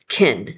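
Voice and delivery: "Kin" set apart, low; just the part "Kin"; second syllable alone. Shown as a demonstration. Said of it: "Second syllable".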